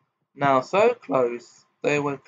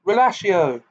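louder, higher spell cry; cried out; 6 semitones higher, 5 dB louder than usual. A narrator's reading. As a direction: fling the spell out. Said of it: "raised his wand and cried".

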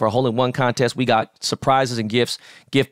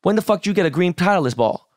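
retold confrontation; 6 semitones higher than usual. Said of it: "walked over to him and said".

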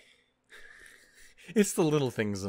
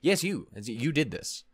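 accusing voice. Pretend. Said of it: "I imagine it's more like a".

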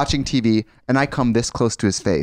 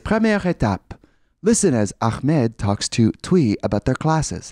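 slow textbook recording voice; French class audio voice; slower than usual. Retold or imitated. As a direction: read it like a language tape. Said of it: "it'd be like".

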